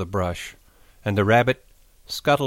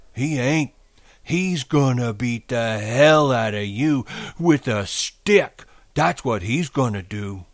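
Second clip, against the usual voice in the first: scornful rabbit; 5 semitones higher, 5 dB louder than usual. A narrator's reading. Rabbit threatening Lenny with George's anger, scornful taunting.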